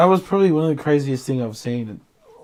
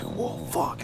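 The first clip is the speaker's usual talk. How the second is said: startled; 9 dB quieter than usual. Retold or imitated. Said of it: "they freaking sort of like".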